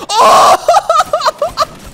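high delighted yelp; surprised shout. Real, not acted. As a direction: yelp at the lucky shot. Surprised at no-scope hit.

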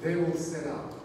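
measured, emphatic scripture reading. Acted. Preacher reading the cloud passage to the congregation, emphatic scripture reading. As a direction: read it out phrase by phrase to the congregation.

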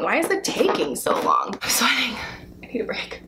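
whispered, half-sobbing complaint; mock crying whisper. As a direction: play a tired mother on the verge of tears. Pretending labor, whimpering.

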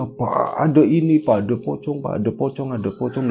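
frightened. Retold or imitated. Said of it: "shock, takut banget".

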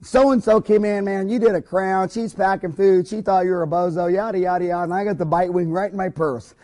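lightly voiced chatty woman, bubbling over; excited friend. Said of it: "she says".

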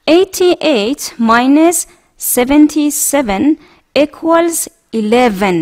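slow, clear model reading. Shown as a demonstration. Teacher reading a multiplication problem aloud for the class, slow. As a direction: say each word slowly. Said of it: "Number five".

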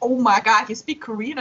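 a burst of excited disbelief, then a rise; mock amazed gasp at a tourist speaking Korean. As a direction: act floored that a foreigner speaks Korean. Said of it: "They're like".

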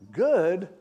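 high, loud rising question; incredulous echo. Retold or imitated. Crying husband questions the pastor's answer, incredulous. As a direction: throw it back in disbelief, imitated.

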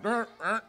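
wordless bickering grunts; imitated squabble noise. Preacher mimics a late-night couple's spat, wordless squabble noise. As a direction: mimic an argument with nonsense noises.

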